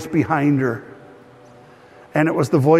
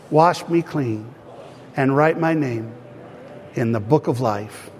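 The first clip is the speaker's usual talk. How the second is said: measured prayer in short, separated phrases; repeat-after-me prayer. Real, not acted. Pastor leading congregation to accept Jesus, repeat-after-me prayer. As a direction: lead the prayer phrase by phrase, leaving room to repeat.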